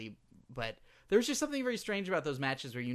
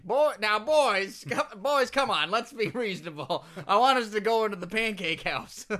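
put-on loud, higher folksy old man pleading; a loud, higher good ol' boy calming the boys down; Zeb Colter voice; 5 semitones higher, 7 dB louder than usual. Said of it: "be like".

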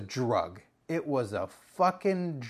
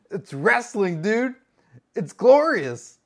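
hyped-up employee; 7 semitones higher, 7 dB louder, slower than usual. Retold or imitated. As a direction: voice climbing high and louder, stretched slowly. Employee explains music to manager.

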